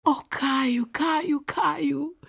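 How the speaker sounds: high, loud call for a lost friend; ringing high-pitched cry. A narrator's reading. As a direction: call the name out, pitched far up. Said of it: "zawołała dziewczynka".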